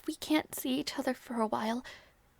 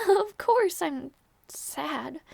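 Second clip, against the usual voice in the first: slow, rueful laugh into the words; laughing through sadness; much slower than usual. Acted. Lady admitting her sadness to the departing knight, laughing slowly. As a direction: laugh it off slowly though it hurts.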